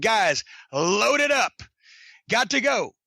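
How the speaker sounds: drawn-out shout to the crew, retold; retold call-out. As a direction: call out the order slowly, as if across tables. Retelling calling to friends to pack.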